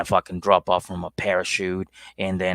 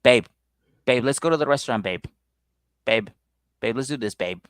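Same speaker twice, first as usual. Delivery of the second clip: mock clingy girlfriend; 2 semitones higher than usual. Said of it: "starts it and ends it with".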